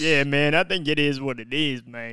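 put-on character, falling away at the end; joke character voice. Friend answering the sign-off, in the character voice. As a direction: play the alter ego at an easy volume. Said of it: "use that voice".

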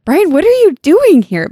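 high, loud cry of disbelief; alarmed cry. Acted. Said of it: "Meg cried".

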